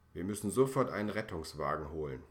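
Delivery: urgent call. Acted. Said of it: "ruft Frau Funke".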